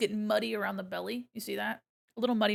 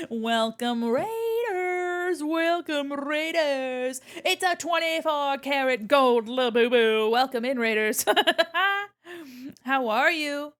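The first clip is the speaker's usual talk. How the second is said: loud, upbeat welcome call; loud greeting; 4 semitones higher, 7 dB louder, slower than usual. Real, not acted. Loudly greeting incoming raiders.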